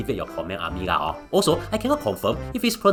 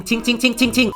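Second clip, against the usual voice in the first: sing-song ting ting; 9 semitones higher, 3 dB louder than usual. Retold or imitated. Mimicking colleague's Mandarin.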